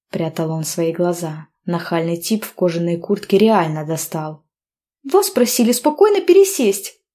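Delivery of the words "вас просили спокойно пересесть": higher, louder insistence; indignant demand. A narrator's reading. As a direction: order him to move. Heroine demanding again.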